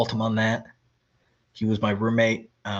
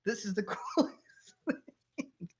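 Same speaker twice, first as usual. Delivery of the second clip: high, amazed and giddy, laughing at the end; excited quote; 10 semitones higher, 3 dB quieter than usual. Retold or imitated. Friend waking up and seeing snow, giddy high amazement. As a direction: gush about the snow like a kid. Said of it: "he's like".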